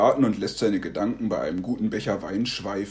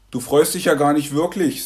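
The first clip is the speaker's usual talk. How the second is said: put-on child's reproach; 5 semitones higher, 6 dB louder than usual. Child challenging grandpa.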